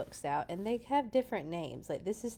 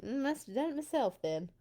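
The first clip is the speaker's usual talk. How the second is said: mumbled; 7 semitones higher than usual. Acted. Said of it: "mumbled the farmer".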